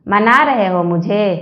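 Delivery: slow, coaxing, lightly romantic; a mild, sweet-talking tease. Acted. Wife softening toward her husband, slow and mildly romantic. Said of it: "पत्नी romantic होते हुए बोली".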